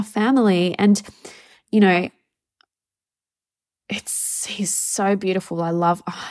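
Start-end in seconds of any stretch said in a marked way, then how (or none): 3.9-6.3 whispered, choked up with love; emotional whisper. Real, not acted. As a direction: breathe it out as the tears come. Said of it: "I'm gonna get emotional again".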